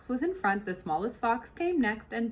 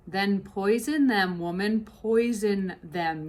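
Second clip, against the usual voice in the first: slow, louder command; stern order; 4 dB louder, slower than usual. Acted. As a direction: mistress snapping an order at the cook. Mrs Bean orders.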